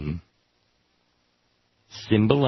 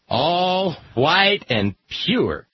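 white and pure drawn out slowly and higher; stress on white; 6 semitones higher, much slower than usual. Shown as a demonstration. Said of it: "Emphasis on the word white".

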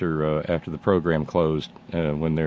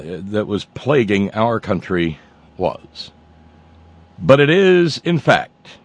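newscaster voice. Pretend. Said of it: "let me get my newscaster voice".

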